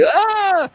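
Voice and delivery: a sudden high-pitched mock "ah"; high yelp. Seeing the police helicopter, a high mock cry. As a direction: toss out a quick high cry, half-joking. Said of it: "like this".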